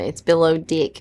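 Below Deck in a Kiwi accent, "Below" as "biloh", "Deck" as "dik"; New Zealand accent. Shown as a demonstration. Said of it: "if you say it with a New Zealand accent".

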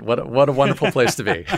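chuckling through the words; amused, laughing as you speak. Real, not acted. Joking about wasps staying in Connecticut.

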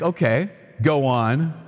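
slow, doubtful okay go on; skeptical go on. Retold or imitated. Inmate eyeing the banker as if he's crazy, slow and doubtful. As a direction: humor him like he's crazy. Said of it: "looking at him like he's crazy".

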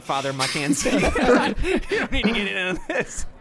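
laughing through the words; can't stop laughing while talking. Real, not acted. Laughing while scolding a friend.

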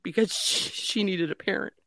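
real tears, high strained voice; crying. Real, not acted. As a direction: break down while getting the words out. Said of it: "oh, I'm gonna start crying".

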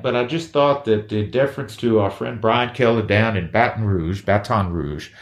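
mock Southern accent, played as a joke; bad Southern accent. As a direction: welcome listeners in a badly faked Southern accent. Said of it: "it's a bad Southern accent".

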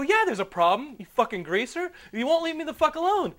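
high, loud furious shout; irate yelling. Retold or imitated. Dreamer yelling at Mario Lopez, irate. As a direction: lay into him, livid. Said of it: "I was so irate in my dream".

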